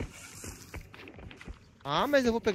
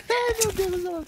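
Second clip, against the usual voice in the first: laughing; 12 semitones higher than usual. Real, not acted. Laughing in fright.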